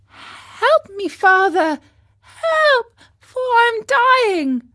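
high, loud, breaking plea; desperate cry for help. A narrator's reading. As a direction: cry out in fear of drowning. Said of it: "cried out weakly".

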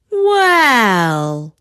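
a lightly voiced old crone; wise old woman. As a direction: draw out the word like a village wise woman. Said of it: "said she".

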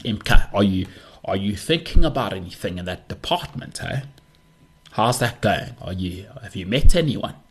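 light South African Jewish accent, lightly put on; a hint of a South African Jewish rabbi, friendly. Friend imitating a rabbi asking about dating, light South African Jewish accent. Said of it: "I do a pretty good South African Jewish accent".

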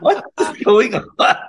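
high, slow, loud amazed cry; recalling shock at a singer eating noodles on FaceTime; stunned disbelief. Retold or imitated. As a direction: act out being floored on a FaceTime call. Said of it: "And I'm like".

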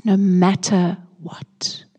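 slow whispered vow. Acted. Pastor praying to host his peace, whispered. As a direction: breathe it, barely voiced. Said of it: "whispered in prayer".

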